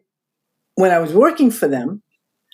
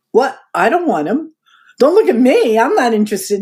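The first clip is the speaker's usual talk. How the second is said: higher-pitched, mock-alarmed refusal; retold startled protest; 5 semitones higher than usual. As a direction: push the idea away, pitch jumping up.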